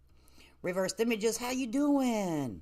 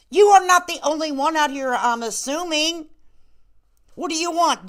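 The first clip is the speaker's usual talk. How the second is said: louder, higher sharp reproach; loud scolding; 6 semitones higher, 8 dB louder than usual. Real, not acted. Host telling off a viewer, loud scolding. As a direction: tell her off, loud.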